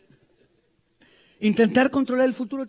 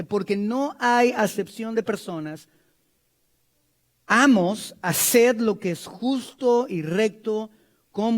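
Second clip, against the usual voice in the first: scripture reading. Acted. Preacher reads Colossians aloud to the congregation, solemn. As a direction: read the verses with weight.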